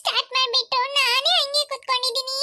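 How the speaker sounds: acted whimper, sobbing at the end; mildly weepy self-pity; tearful fretting. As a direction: worry to yourself, close to tears. Child left behind frets tearfully.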